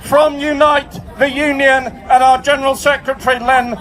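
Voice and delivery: full-force, measured public speech; rally oratory. Real, not acted. Union chief addresses the demonstration, shouted oratory. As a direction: deliver each phrase out to a big crowd.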